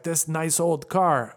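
put-on slow Russian accent drifting into German; muddled foreign accent. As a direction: badly imitate a Russian driver, slowly. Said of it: "he sounds German or Brazilian".

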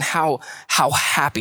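"how happy" drawn out with emphasis; stressed phrase. Shown as a demonstration. Preacher showing how to emphasize a phrase, slow and weighted. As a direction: dwell slowly on "how happy". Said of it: "emphasize a different word or phrase".

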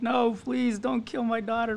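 high, drawn-out fake plea; mock tearful pleading. Girl begging scammers for her daughter, mock crying. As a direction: imitate someone breaking down, without real tears. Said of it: "breaks down and cries".

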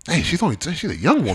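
laughing. Real, not acted. Laughing at being called middle-aged.

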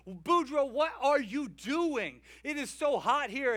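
annoyed devil. Retold or imitated. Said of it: "And devil says".

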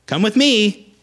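soldier's rally cry. Retold or imitated. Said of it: "a soldier that's trying to rally those".

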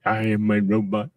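whispered robot voice; toy robot voice. Pretend. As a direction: play a little robot, breathy and mechanical. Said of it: "I sound like a robot".

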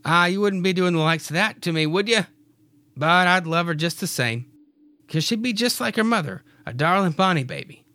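fond husband answering his wife; Clyde's voice. Acted. Clyde answering Mary fondly, lightly voiced.

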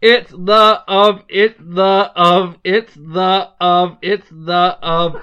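word by word, straining to make one breath last; reading on one breath. Shown as a demonstration. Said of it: "in one breath".

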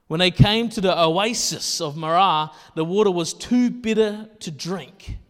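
projected scripture read. Acted. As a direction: read the passage out to the congregation.

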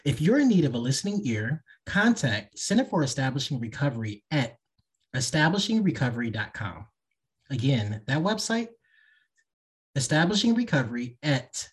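smooth podcast ad read. Acted. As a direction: read it like a sponsor spot. Host reads sponsor ad and outro.

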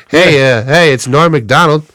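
lightly voiced comedian impression; halting comic hail with a hint of the comedian; Norm Macdonald. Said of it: "got Norm Macdonald as the, the pigeon".

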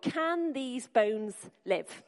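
each word drawn out slowly, at normal loudness; slow prayer. Shown as a demonstration. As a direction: ask it slowly, as a model for the room to repeat. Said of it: "say to God".

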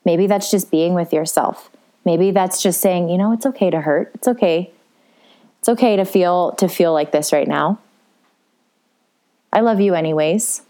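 a hint of a soothing mother; gentle reassurance. Mother self comforting her hurting part, mildly tender. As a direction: reassure it kindly, unhurried. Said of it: "being a mother to that part of you".

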